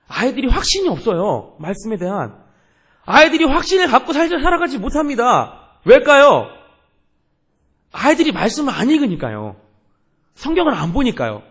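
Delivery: high, loud, emphatic pulpit cry; forceful preaching. Real, not acted. Pastor lamenting youths lacking conviction in Scripture, forceful preaching. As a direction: drive each point home at full force.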